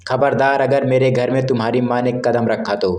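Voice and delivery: sharply calling his wife to stop; shouting. Acted. Mukesh stops wife at the door, mild mock shout. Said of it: "चिल्लाते हुए कहा".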